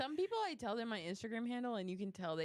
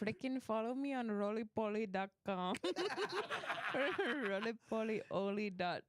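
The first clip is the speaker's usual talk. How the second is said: laughing. Pretend. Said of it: "I can't do it now".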